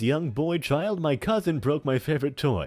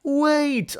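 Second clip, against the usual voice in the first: whisper; 8 dB louder than usual. Acted. Pleading whisper in character.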